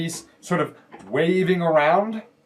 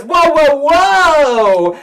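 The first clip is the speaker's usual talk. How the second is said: high, very loud halt; loud kid challenge; boy on guard; 14 semitones higher, 11 dB louder, much slower than usual. Acted. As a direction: shout them to a stop, drawing out the last. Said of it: "he points it at you and says".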